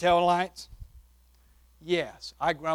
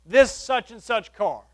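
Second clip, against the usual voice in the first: a little louder; 2 semitones higher, 4 dB louder, slower than usual. Retold or imitated. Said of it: "a little bit louder".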